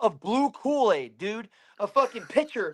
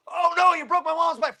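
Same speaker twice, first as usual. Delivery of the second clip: high-pitched mock complaint; mocking imitation of a dismayed boy; upset boy; 9 semitones higher than usual. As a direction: mimic the other kid, pitched way up. Acting out the other boy.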